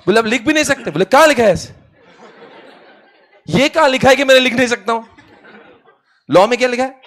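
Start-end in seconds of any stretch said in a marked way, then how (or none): 0.2-0.9 higher-pitched mock objection; retold firm refusal. Company forbids the proxy to write, retold firm refusal. 1.1-7.0 high-pitched, laughing challenge; acted indignant protest. Proxy challenges the company's ban on writing, acted indignant protest.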